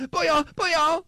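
fast, high mock Asian accent. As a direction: rattle it off in a squeaky accent. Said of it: "I'm working on my Asian accent".

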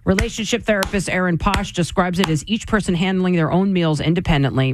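smooth radio news delivery; evenly paced headline read. Acted. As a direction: read the closing story like an anchor. Reads a news item.

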